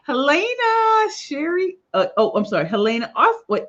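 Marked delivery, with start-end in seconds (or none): 0.1-1.8 excited call. Real, not acted. Greeting a viewer by name.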